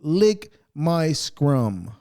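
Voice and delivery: very slow, drawn-out mocking taunt; taunting comeback. Telling the prankster off, a slow sneering mock taunt. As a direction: stretch every word to rub it in. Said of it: "That's the only way it's gonna happen".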